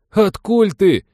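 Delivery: amazed. Acted. Stunned at old friend.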